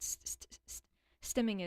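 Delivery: stuttering on the word. Real, not acted. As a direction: catch on the first sound. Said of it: "I stutter sometimes".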